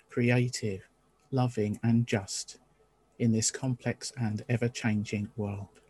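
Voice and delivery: chalice lighting reading. Acted.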